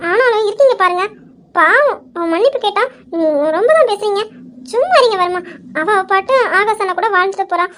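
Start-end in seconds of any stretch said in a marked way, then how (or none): 0.1-5.4 pouting whine. Acted. Wife teasingly scolding husband.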